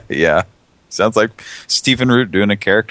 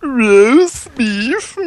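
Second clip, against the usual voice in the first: much higher, over-the-top ad pitch; excited announcer imitation; 4 dB louder than usual. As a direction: squeal it like a cheesy commercial guy. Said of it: "who talks like that?".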